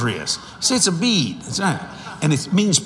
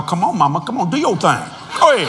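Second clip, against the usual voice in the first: teasing wife; faster than usual. Retold or imitated. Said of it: "I go".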